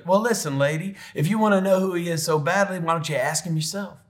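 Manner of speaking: imitating a fed-up old dad; testy retort. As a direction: put the questioner in their place. Dad snapping back at nurse, acted.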